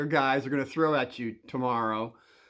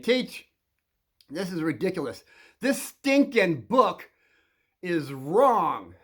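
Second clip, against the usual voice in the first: mildly raised, emphatic mock outburst; staged yelling; 3 semitones higher, 4 dB louder, slower than usual. Kid stages a fight with the teacher, mock yelling. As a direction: punch out each word in a pretend yell at the teacher. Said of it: "you're gonna yell at him saying".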